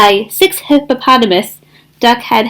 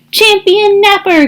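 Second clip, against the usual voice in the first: honk; 9 semitones higher than usual. Acted. Goose honks a boast to friends, high. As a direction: honk it out proudly. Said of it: "Goose honked".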